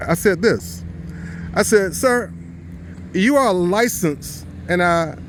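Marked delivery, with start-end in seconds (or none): 1.9-4.4 slow, deliberate "licensed", leaned on hard; stress on licensed. Retold or imitated. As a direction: press the word licensed like a warning. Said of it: "I emphasize the word licensed".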